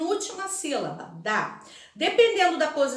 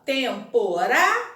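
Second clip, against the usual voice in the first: "Temporário" slowly in syllables, RÁ raised and emphasized; stress on RÁ; 4 dB louder, slower than usual. Shown as a demonstration. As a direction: spell out "Temporário" by syllable, hitting RÁ. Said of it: "destaquem a sílaba pronunciada com mais intensidade".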